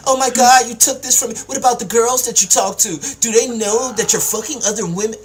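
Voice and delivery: loud, high-pitched mimicry of a complainer; mock complaining. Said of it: "You over here crying about".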